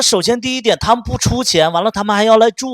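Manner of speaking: loud, high furious scolding; angry outburst. Retold or imitated. To her ex about his father, furious shouting. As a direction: yell it at him, fed up. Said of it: "我就发火了".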